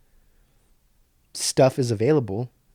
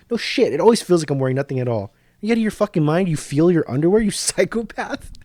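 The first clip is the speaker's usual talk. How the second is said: mocking, disbelieving outburst, pitch climbing; incredulous rant; 4 semitones higher than usual. Real, not acted. Vlogger mocking an underwear ad: incredulous rant. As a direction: scoff at the ad like it's insane.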